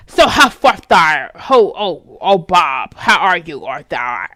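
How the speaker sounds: imitating a British accent, far off from her own voice; lightly mocking British accent. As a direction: put on a jokey posh British voice. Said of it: "a British accent".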